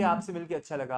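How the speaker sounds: understated lack of enthusiasm; mildly monotone demonstration; dull, listless. Shown as a demonstration. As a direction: say it drily, without interest. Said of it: "इतनी नीरसता से कहेंगे".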